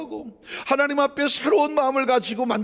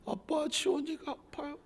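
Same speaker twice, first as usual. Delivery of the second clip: put-on lightly higher little-child voice; imitating a small child; 5 semitones higher, 11 dB quieter than usual. Son telling dad he's hurt, soft child voice. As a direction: plead softly like a hurt kid. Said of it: "이게 삼 인칭을 쓰네".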